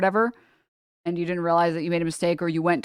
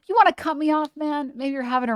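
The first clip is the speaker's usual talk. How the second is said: mock generous; 8 semitones higher, faster than usual. Mock-generous driver talk.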